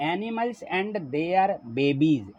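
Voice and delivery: slow, measured reading of a title; spaced-out teacher's reading. Shown as a demonstration. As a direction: read it word by word for learners. Teacher reads out the lesson title.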